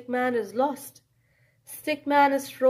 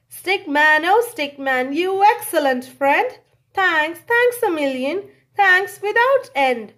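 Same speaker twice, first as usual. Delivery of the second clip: louder, beaming thanks; grateful Santa; 3 semitones higher, 5 dB louder than usual. Acted. Santa gratefully thanks his rescuer. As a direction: gush with gratitude.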